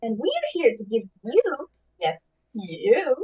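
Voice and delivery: genie voice. Pretend. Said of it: "give it your best genie voice".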